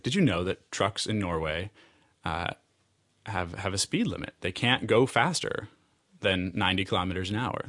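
lightly imitated halting English; hesitant foreign speaker, only hinted at. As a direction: break the sentence up with searching pauses. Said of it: "sort of a halting English-German mix-up".

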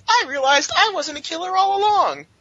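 high, sing-song imitation of Gwen; mock Gwen voice. Mocking Gwen's convenient excuse, high mock voice. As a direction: parody her excuse in a high voice. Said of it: "It's very easy to say".

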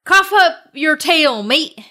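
pirate voice. Acted. Pirate phrase of the week.

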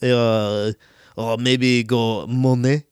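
put-on joking French accent, vowels stretched, Monet drawn out slowly; mock French accent. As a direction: put on a silly French accent and slur the ends of the words. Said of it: "French accent".

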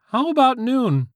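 put-on slow squeaky teen voice; drawn-out squeaky voice; high squeaky teen voice. A narrator's reading. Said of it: "the squeaky-voiced teen".

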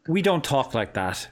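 slow, amused Irish-accented denial; slow laughing denial. Real, not acted. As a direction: draw it out through a laugh.

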